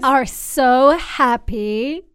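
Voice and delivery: slow drawn-out Kourtney Kardashian with long pauses; a light take on Kourtney Kardashian, slow and paused; slow, paused celebrity drawl, lightly done; Kourtney Kardashian impression. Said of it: "she's like".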